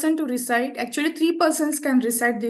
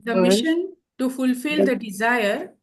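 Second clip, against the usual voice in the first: leading recitation. Shown as a demonstration. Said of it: "Please also repeat".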